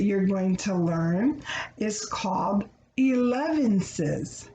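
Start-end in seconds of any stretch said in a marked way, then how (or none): 1.8-4.5 elevenses stressed with a falling end; teaching a new word. Shown as a demonstration. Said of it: "That word means".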